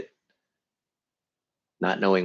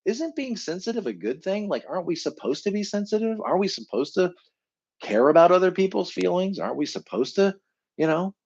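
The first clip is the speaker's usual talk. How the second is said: puzzled inner voice; 7 semitones higher than usual. Retold or imitated. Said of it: "And you probably thought".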